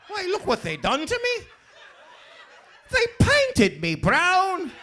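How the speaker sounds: high, prissy genteel white man voice; posh white guy voice. Retold or imitated. Driver fooling the traffic cop, high prissy genteel voice. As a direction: play a fussy genteel gentleman to fool the cop. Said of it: "I pulled some gangster out".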